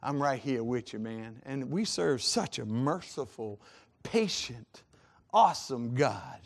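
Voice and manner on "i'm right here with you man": a hint of a gentle dad, dropping very soft; soft fatherly voice. Father comforting his child in a soft murmur. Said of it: "And he says".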